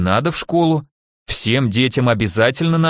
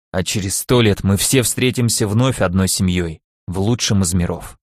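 voice breaking; 4 semitones lower than usual. Acted. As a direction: hold back tears as you speak. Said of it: "Его голос надломился". (надломленный голос)

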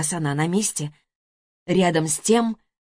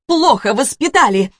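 louder, higher and hot-tempered; fiery retort, louder; heated; 6 semitones higher, 6 dB louder than usual. A narrator's reading. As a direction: snap it back angrily. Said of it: "запальчиво проговорила Жанна".

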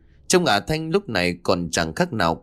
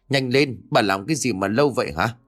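mild impatient bark. Acted. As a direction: hurry her up, fast and cross. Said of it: "Ông Minh bực dọc quát lớn".

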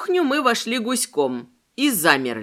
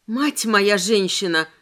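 squeezed out; slower than usual. Acted. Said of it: "выдавила я".

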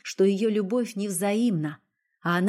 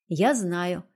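ordinary delivery

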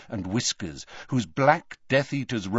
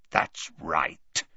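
rasping voice; 5 semitones lower, 3 dB quieter than usual. A narrator's reading. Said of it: "said Greyback".

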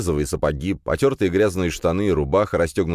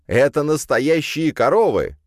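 excited; 10 semitones higher, 5 dB louder than usual. Acted. Kirill thrilled to see cows.

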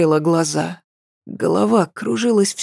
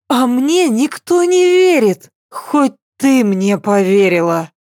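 slurring, much higher insistence; tipsy pleading; 6 semitones higher than usual. Acted. Tipsy girl near tears.

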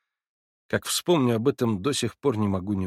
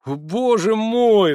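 much higher, loud and drawn-out; cry of delight; 12 semitones higher, 7 dB louder, much slower than usual. A narrator's reading. Alyosha overjoyed at Natasha's forgiveness, crying out. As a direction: burst out in rapture. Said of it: "вскрикнул он в восторге".

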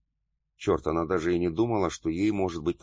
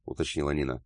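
ordinary delivery, nothing marked

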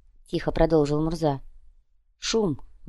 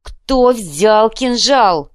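slow, loud, higher menacing demand; threatening; 5 semitones higher, 7 dB louder, much slower than usual. Acted. Krokhin threatening his companions, slow loud menace. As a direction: spell each word out as a threat. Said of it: "с угрозой в голосе продолжил Крохин".

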